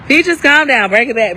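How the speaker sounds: overhyped. Real, not acted. Telling herself to calm down, loud and hyped. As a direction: rein yourself in while still buzzing. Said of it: "I'm getting too hyped".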